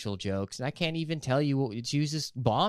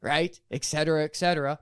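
eager apology; 4 semitones higher than usual. Retold or imitated. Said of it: "I get up and I go".

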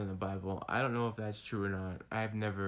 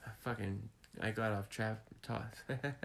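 slurred speech through numb lips; 6 dB quieter, slower than usual. Real, not acted. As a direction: talk with a numb, heavy mouth. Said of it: "My lips are numb still".

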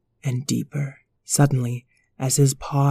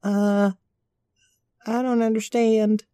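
puppy voices; 6 semitones higher than usual. Acted. Puppies chat about flying.

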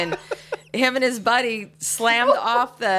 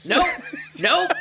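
retold yell; 8 semitones higher, slower than usual.

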